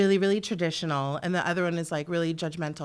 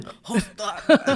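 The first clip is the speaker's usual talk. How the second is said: louder mock German accent; 5 dB louder than usual. Shown as a demonstration. Guest answering host's request, loud hammed-up German accent. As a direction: blurt it as a stock film German. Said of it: "German accent".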